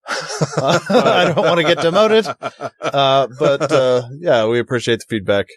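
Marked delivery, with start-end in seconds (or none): 0.1-2.3 laughing. Real, not acted. Joking about demotion.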